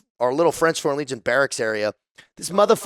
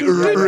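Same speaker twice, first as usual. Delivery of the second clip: imitated gibberish noises; 5 semitones higher, 5 dB louder than usual. Imitating the bar's foreign chatter.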